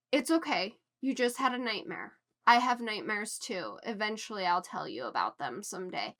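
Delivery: lightly voiced, soothing a scared child; soft comforting mother. Katniss soothing her child after a nightmare, soft and tender.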